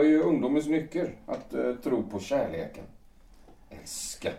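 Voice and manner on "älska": scornful. Acted. Scoffing at the word love.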